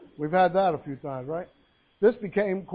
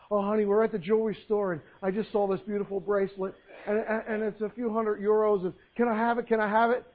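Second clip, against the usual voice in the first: lightly voiced eager wife, a little higher; wheedling wife; 3 semitones higher than usual. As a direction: plead sweetly for a treat. Wife begs husband for bracelet.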